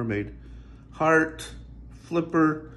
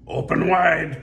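loud raised call; cry; 7 semitones higher, 9 dB louder, slower than usual. Acted. Pirate ordering the whale to open, loud. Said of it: "cried the skeleton pirate".

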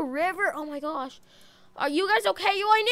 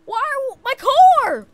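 anguished wail; 10 semitones higher, 9 dB louder, much slower than usual. Real, not acted. Car wrecked after the fall.

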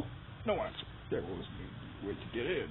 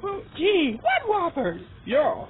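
dragon voice; 4 semitones higher, 5 dB louder than usual. Acted. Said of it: "Dragon voice!".

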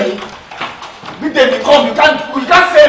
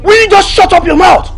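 angry shout; 6 semitones higher than usual. Acted. Femi shouting at Bidemi to shut up, furious. Femi yelling at girlfriend in public.

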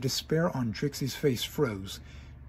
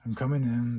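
announcing entry again. Acted. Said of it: "Wait a minute".

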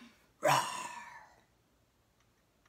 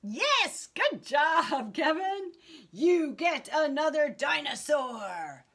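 excited praise; 3 semitones higher than usual. Real, not acted. Praising child after his answer.

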